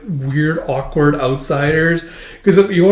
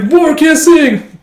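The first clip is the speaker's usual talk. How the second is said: much higher, louder smoochy voice; hammed-up smooch; mock kissing; 12 semitones higher, 7 dB louder, much slower than usual. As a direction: coo it playfully.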